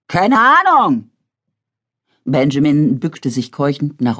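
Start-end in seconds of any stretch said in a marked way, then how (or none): 0.1-1.1 high, slow, panting reply; breathless answer. A narrator's reading. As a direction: gasp it out after running.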